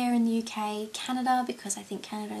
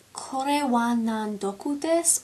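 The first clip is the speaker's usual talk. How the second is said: slow "Kore wa nan doku desu" in a poor Japanese accent; bad Japanese accent; 4 dB louder, slower than usual. Shown as a demonstration. Half-remembered school phrase, slow, in a bad Japanese accent. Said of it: "I'm probably saying it really poorly".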